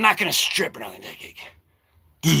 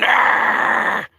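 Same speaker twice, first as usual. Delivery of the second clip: mock pirate roar; 2 semitones higher than usual. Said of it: "he's yelling".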